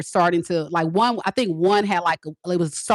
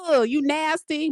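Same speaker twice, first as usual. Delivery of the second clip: mock disgust; 7 semitones higher than usual.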